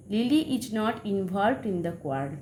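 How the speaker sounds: very slow, word by word; slow dictation. Shown as a demonstration. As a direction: read it slowly for the class to copy. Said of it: "example sentence". (ধীরে ধীরে পড়ে শোনানো)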